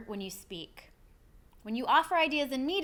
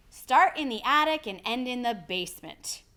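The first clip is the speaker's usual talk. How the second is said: firm model sentence, louder, BASEMENT falling; downward inflection; 5 dB louder than usual. Shown as a demonstration. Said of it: "repeat after me".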